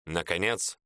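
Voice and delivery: ordinary delivery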